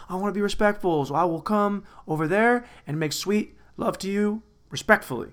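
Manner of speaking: hammed-up courteous sweet talk; mock respectful suitor. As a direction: play an overly respectful lover. Acted over-respectful reply to a text.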